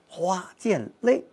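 花溅泪 slow, weight on 花 and 泪; 花和泪重读; stress on 花 and 泪. Shown as a demonstration. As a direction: lean on 花 and 泪, unhurried. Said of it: "花和泪".

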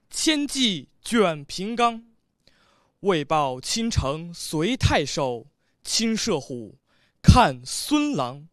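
measured, declaimed recitation with long held line endings; 诗词朗诵. Shown as a demonstration. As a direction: recite the ci formally, pausing between phrases. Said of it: "你试一下". (豪放地朗诵宋词)

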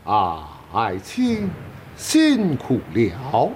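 emperor. Acted. Emperor addressing his minister.

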